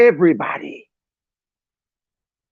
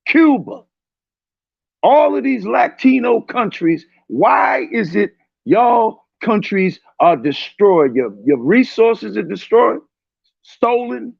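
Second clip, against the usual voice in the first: raised, heated voice, pitch up at the start; angry shout. Real, not acted. Ranting at Latino listeners about their countries, angry shout. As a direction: fire the questions out like accusations.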